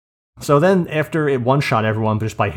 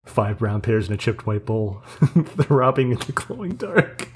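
poetry reading; slower than usual. Shown as a demonstration. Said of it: "you doing your cold open".

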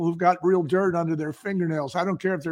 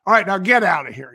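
loud, hurried retold dismissal; fast, brusque mock-yelled send-off; 2 semitones higher, 7 dB louder, faster than usual. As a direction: imitate an irritated buyer shooing someone out. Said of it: "he was yelling at me".

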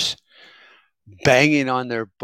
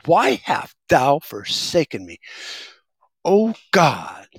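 high pleading cry to God, hammed up; mock preacher wail; 4 semitones higher, slower than usual. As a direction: wail it like a revival preacher begging heaven. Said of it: "one guy just kept saying".

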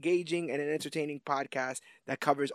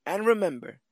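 announcer voice; 9 semitones higher, 6 dB louder, slower than usual. Acted. Grand announcer sign-off.

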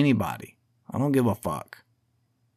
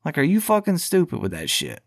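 higher, incredulous mock yell at Rogan; imagined retort; 7 semitones higher than usual. What he would say to Rogan, incredulous mock yell. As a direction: snap it at him like a scolding. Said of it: "I'd be like".

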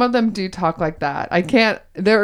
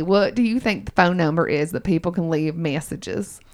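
put-on Southern accent; 2 semitones lower than usual. Host quizzes co-host on their show in a Southern accent. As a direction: quiz her in a playful Southern accent. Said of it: "in my Southern accent".

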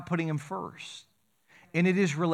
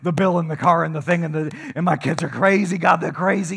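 mock frantic listing; 6 dB louder than usual. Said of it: "And you're like".

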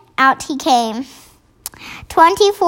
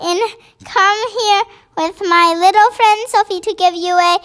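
higher, eager giant voice; a big friendly giant calling out, thrilled; excited BFG voice; 6 semitones higher than usual. Acted. Giant calling out to the queen, higher and thrilled.

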